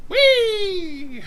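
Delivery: high laughing whee; sonic boom. Pretend. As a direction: squeal it like breaking the sound barrier. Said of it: "We're gonna go break the sound barrier".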